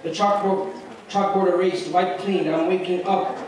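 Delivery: measured spoken-word delivery with dramatic pauses; poem recitation. Acted. Student reciting his poem about a girl in a hijab, spoken-word style. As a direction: recite in short, deliberate phrases.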